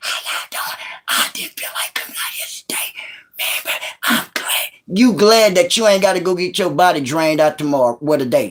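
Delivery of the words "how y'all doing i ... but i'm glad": mock whisper, made quieter. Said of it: "cell phone".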